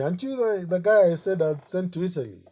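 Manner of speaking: lightly voiced boss spotting the artist; surprised Ludovico. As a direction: catch him out, half teasing. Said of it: "And he asks me".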